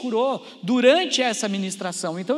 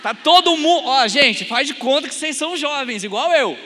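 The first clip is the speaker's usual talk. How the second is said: hyped up; 4 semitones higher, 6 dB louder than usual. Real, not acted. Urging the crowd for energy.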